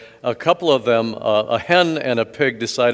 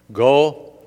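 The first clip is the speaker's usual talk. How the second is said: louder, a hammed-up church plug; mock announcement; 7 dB louder than usual. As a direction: pretend Jesus pitching the parish carpool. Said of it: "No, no, that's not what he said".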